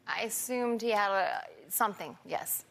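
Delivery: words running together; slurring words. Real, not acted. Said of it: "Because you're slurring your words".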